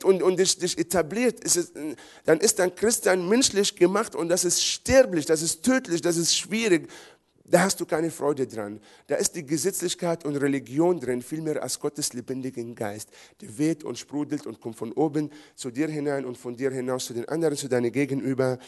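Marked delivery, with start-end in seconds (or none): none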